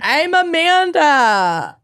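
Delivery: high, slow Minnesotan intro; hammy Minnesota voice; Minnesotan accent. Pretend. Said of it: "their worst Minnesotan accents".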